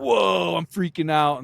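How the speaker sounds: high, loud mock panic starting on a stretched whoa; mock freak-out. Mimicking everyday emotional spikes to his friend, mock freak-out. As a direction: act out a sudden emotional spike. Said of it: "our emotions are constantly spiking".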